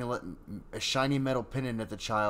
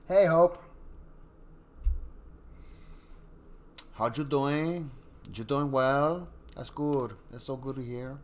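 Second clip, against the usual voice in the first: high, loud happy hello; excited greeting; 4 semitones higher, 3 dB louder than usual. Real, not acted. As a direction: greet her with delight. Greeting a viewer brightly.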